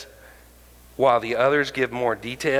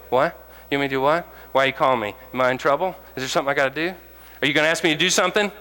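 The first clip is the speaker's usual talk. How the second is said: higher, anxious rapid questions; nervous church member; 4 semitones higher, much faster than usual. Retold or imitated. Church members called by pastor, higher anxious questioning. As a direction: fire off worried questions. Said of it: "they go".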